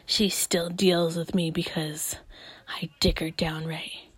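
low, whispery mock bragging; hammed-up low, self-satisfied man; smug boyfriend. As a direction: brag under your breath as the toxic boyfriend. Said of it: "and you're like".

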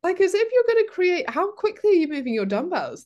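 high loud disbelief; incredulous. Real, not acted. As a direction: scoff in disbelief. Incredulous mockery.

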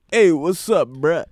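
code-switch into a hood greeting; African American accent. Retold or imitated. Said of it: "if I was to go to the hood, I'd be like".

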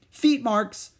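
put-on high, insistent little-girl voice; stubborn child. A narrator's reading. Little sister insisting on her word to Beezus. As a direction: dig in and repeat it. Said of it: "said Ramona".

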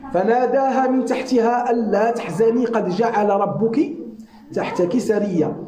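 rapid chanted Quranic recitation. Acted. Preacher recites the verse to the congregation, fast and chanted. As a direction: recite the verse in one quick flowing breath.

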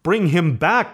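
high, impassioned demand; frantic insistence, pitch well up; crying out. A narrator's reading. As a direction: cry it out, desperate for him back. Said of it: "cried the old woman".

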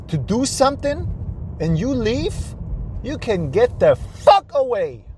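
mildly angry telling-off, pitch climbing toward the end; retold angry ultimatum. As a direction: lay down the law, acting out an old argument.

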